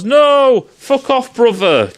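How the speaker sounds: high, loud furious refusal; angry shout. Retold or imitated. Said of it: "the brother goes".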